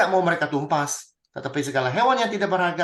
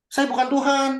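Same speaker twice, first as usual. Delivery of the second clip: mock protest; 9 semitones higher, 4 dB louder than usual. Preacher voicing Saul's thought.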